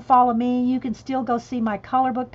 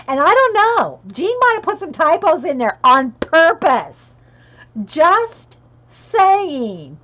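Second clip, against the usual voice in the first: laughing tease; 6 semitones higher, 9 dB louder than usual. Real, not acted. Teasing friend about typos.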